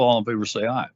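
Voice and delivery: talking around a mint; words over a crunched candy; crunching a mint. Real, not acted. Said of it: "I'm crunching a mint".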